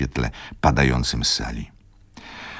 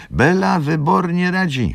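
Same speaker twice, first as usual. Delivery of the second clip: put-on old gentleman cutting in; 3 dB louder than usual. A narrator's reading. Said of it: "wtrącił pan Tomasz".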